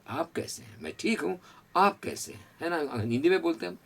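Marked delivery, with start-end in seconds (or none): 0.1-0.8 "आप" said with a rising lift; lifted you. Shown as a demonstration. Teacher shows students the lift on "आप", rising. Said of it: "यू पे हल्का सा हमारा सर उठा के". 0.8-2.6 higher, lifting reply; raised reply. Shown as a demonstration. Teacher demonstrates the Hindi reply to students, higher. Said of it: "हल्का सा हमारा सर उठा के".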